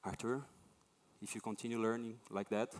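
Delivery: soft, low-key teacher breaking bad news; imitating a teacher's hushed, careful warning; gentle telling. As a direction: let the verdict down gently, quietly. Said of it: "gently told me".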